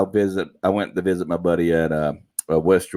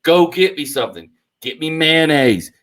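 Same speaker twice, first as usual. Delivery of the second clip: retold scream; 6 semitones higher, 4 dB louder than usual. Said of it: "He, like, screaming".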